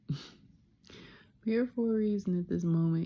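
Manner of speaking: amused self-affirmation with a laugh. Real, not acted. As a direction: laugh it out as it sinks in. Repeats realization with laugh.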